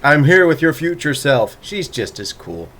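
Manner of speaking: mock time traveler greeting. Mock greeting from future self.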